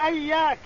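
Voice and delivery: إياك begun with a short a; إياك said ayyāka with an a-vowel on the hamza; opening hamza with fatha. Shown as a demonstration. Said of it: "بالفتح، بفتح الهمز".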